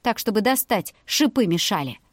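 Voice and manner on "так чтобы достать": ordinary delivery, nothing marked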